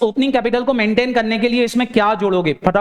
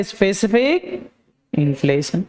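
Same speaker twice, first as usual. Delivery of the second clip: slow drawn-out answer; 3 semitones lower, slower than usual. Shown as a demonstration. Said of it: "क्या दिया रहेगा?".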